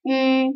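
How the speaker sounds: I said with the tongue kept for i but the lips rounded forward like u; lips pursed. Shown as a demonstration. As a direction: round the lips like u while saying I. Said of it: "Bibirnya saja yang berubah menjadi huruf U".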